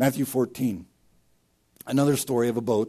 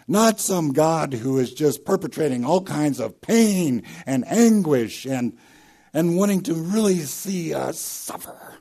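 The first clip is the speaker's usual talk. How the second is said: louder, higher, the preacher pushing hard against the idea; preaching at full force; 6 semitones higher, 5 dB louder than usual. Acted. Pastor rejecting a cruel God before his congregation, preaching at full force. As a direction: swell up and drive it home from the pulpit.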